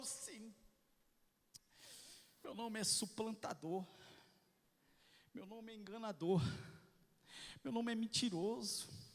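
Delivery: quiet confession. Acted. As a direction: confess it under your breath. Voicing Jacob's confession.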